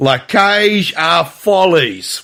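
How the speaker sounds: very slow, drawled put-on Australian accent. Saying a show title, done in Australian: put-on Australian accent. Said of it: "I'll do it in Australian. Here we go".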